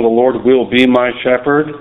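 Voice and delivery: "will" stands out, phrase rising at the end; stress on WILL. Shown as a demonstration. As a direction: lean on "will" as future tense. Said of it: "He didn't say".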